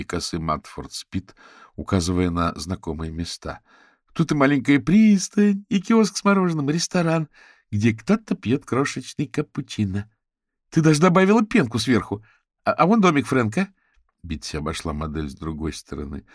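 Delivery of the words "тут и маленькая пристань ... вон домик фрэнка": high, loud excited pointing-out; eager, high-pitched admiration; delighted friend. A narrator's reading. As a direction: marvel at each tiny detail.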